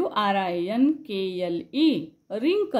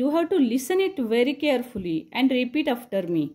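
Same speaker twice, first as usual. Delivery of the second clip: slow emphatic instruction; much slower than usual. Shown as a demonstration. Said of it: "slow instruction".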